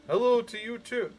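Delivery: chirpy radio host reply; lightly voiced radio DJ; announcer voice. Shown as a demonstration. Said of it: "announcer voice".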